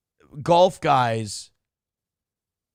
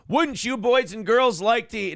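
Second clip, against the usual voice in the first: put-on kids' show host; 6 semitones higher than usual. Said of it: "now you can't hear the clapping sound effect".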